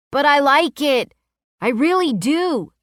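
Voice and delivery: put-on high eager young boy; little boy voice. A narrator's reading. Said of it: "he proclaimed with big blue eyes".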